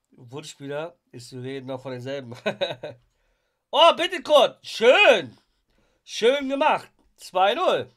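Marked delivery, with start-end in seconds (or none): 3.7-7.9 excited cheer. Real, not acted. Goal scored during live match.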